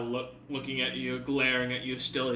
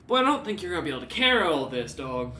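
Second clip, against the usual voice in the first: fast, louder, doubting guard voice; doubtful guard; 3 semitones higher, 5 dB louder, faster than usual. Acted. Guard doubting the dog can carry all this, fast. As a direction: rattle off your doubts quickly. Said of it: "kinda looks at you and goes".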